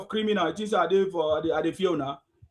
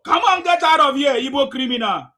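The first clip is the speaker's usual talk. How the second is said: angry order; 4 semitones higher than usual. Real, not acted. Host throwing caller out.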